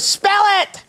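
very high, mock Indonesian voice; bad Indonesian accent. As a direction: imitate an Indonesian call-center woman, high-pitched. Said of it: "forgive me for this bad Indonesian accent".

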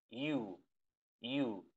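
"you" as a smooth ee-oo; soft you. Shown as a demonstration. Teacher models the correct U for students, soft "you". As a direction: glide gently from i to u in "you". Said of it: "Esa es la pronunciación".

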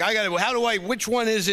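put-on high-pitched flustered old man fumbling with remotes; a lightly voiced old man lost with the remote; old Carl fumbling. Old Carl fumbling with two remotes, flustered and high. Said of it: "so then Carl's like".

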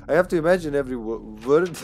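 loud, hammed-up Serbian accent; thick Serbian accent. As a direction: push each word out Serbian-style. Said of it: "Put it in Cyrillic".

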